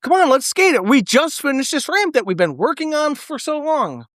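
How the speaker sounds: high-pitched pleading impression; Harland Williams. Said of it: "Harlan Williams is like".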